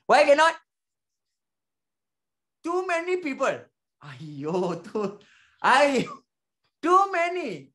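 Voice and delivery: high, loud, hammed-up complaint; mock protest. Customer objecting to sharing cupcakes with too many people, mock protest. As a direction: protest in exaggerated, high-pitched disbelief.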